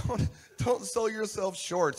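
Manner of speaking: loud, high and drawn out; emphatic correction. Real, not acted. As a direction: belt it out slowly, every word driven home. Corrects the saying after "No.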